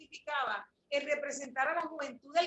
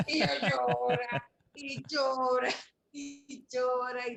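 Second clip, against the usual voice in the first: laughing; 5 dB louder, slower than usual. Real, not acted. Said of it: "eso era llora y llora".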